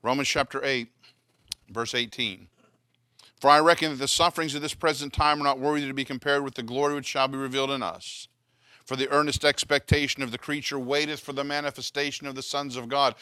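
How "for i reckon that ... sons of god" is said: loud, brisk opening, steady Bible reading; scripture reading. Acted. Preacher reading Romans to the congregation, loud scripture reading. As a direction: read the passage straight through, projecting.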